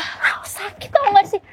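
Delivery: slow, high-pitched moan; whining in pain; pained protest. Acted. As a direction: drag it out, hurting and complaining. Captive protests being hurt.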